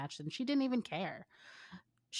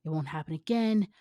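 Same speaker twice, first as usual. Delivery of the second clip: put-on pleading boyfriend; 3 semitones higher, 7 dB louder than usual.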